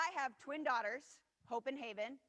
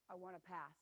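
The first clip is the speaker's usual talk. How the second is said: sulky pass; 5 semitones lower, 10 dB quieter than usual. Retold or imitated. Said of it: "she put her head down".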